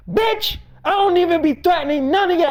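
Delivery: high, sudden exclaim; indignant outburst. Real, not acted. Hearing she claimed threats, high indignant outburst. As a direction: spit it out in disbelief.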